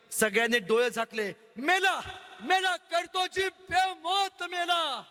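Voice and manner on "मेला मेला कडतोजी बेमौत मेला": slow anguished cry. Acted. Onlookers fear his death.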